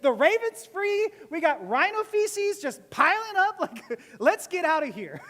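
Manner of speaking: loud, high comic outburst; losing it. Acted. Cooped-up passenger on Noah's boat, losing it. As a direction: blow up in mock exasperation. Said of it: "I'd be losing it".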